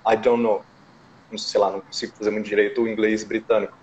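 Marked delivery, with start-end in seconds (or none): 0.1-0.6 British "I don't know" with a crisp T; a light try at a British accent. Shown as a demonstration. British accent, set against the American take. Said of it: "No inglês britânico ficaria".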